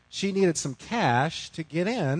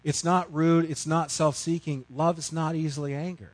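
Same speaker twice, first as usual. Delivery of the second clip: quoting scripture. Retold or imitated. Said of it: "She quotes".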